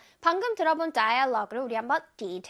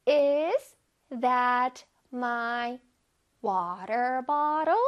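slow, word by word, bottle lifted at the end; rising question tune; 2 semitones lower, much slower than usual. Shown as a demonstration. Teacher leads pupils' read-aloud, rising question tune on bottle. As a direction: read it slowly in chunks, raising bottle as a question. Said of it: "끝에 물음표가 있으니까 눅 올려줘야 돼요".

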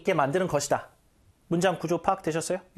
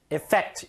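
Effect with the stress on fect; stress on the end. Shown as a demonstration. Teacher showing where Effect takes its stress. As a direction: hit the second syllable of Effect. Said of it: "요건 뒤에 강세 줘야 됩니다".

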